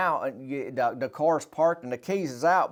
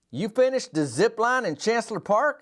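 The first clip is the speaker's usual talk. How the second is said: amazed; 8 semitones higher than usual. Retold or imitated. Amazed question to friend.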